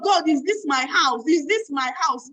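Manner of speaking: mother asking God in disbelief, slow wondering voice; amazed disbelief. Retold or imitated. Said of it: "She's asking God".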